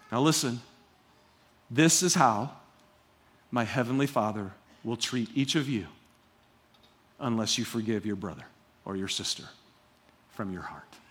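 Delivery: hushed solemn warning. Acted. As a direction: lean in with a grave warning. Solemn warning from Jesus's words.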